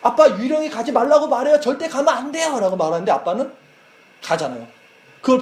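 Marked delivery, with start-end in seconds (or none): 0.0-2.6 높은 목소리로 흉내 낸 어린 딸; 아빠를 말리는 어린아이처럼 높고 다급하게; young daughter. Retold or imitated. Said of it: "그걸 딸이 보고 아빠한테". (아빠에게 유령 얘기를 전하는 어린 딸의 높은 목소리)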